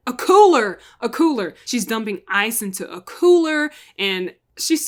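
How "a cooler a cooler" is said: louder burst of recall; louder triumphant recall; eureka. Real, not acted. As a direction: pounce on the word you finally found. Finally finding the word.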